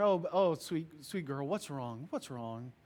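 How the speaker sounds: calm her down gently; comforting parent. Retold or imitated. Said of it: "you comfort her".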